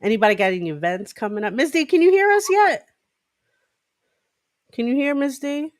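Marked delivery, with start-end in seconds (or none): 1.5-5.7 calling out. Real, not acted. Calling to remote guest.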